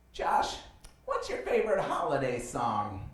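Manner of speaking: slow, sugary imitation of a perky woman; mock her sweet, drawn-out positivity; overly positive date. Perky date asks over lunch, mocked overly positive voice. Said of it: "She was, like, overly positive".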